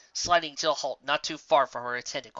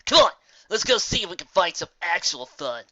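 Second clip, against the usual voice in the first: shrugging; 3 semitones higher, 5 dB louder than usual. Acted. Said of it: "Gilda shrugged".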